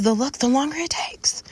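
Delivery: breathy whispered punchline. Real, not acted. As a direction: drop to a whisper to land the point. Whispered emphatic end.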